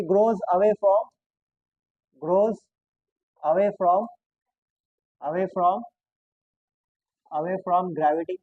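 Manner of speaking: slow, word by word, as if for copying notes; dictating notes to students, slow and spaced; slow dictation. Shown as a demonstration. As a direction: spell it out slowly for the class to write. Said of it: "teacher dictates notes slowly".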